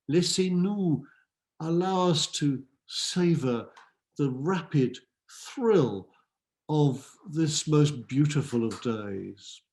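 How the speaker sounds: slow, measured poetry reading; poem recitation. Acted. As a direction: savour each phrase of the verse.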